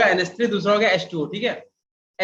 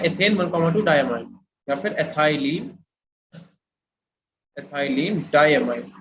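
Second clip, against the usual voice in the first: slow dictation; 4 semitones lower, slower than usual. Shown as a demonstration. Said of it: "dictating name slowly".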